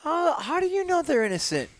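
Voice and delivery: high, put-on incredulous voice; mock indignant retort. Joking comeback to activist about innocent animals, high mock indignation. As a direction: play up mock suspicion in a high pitch.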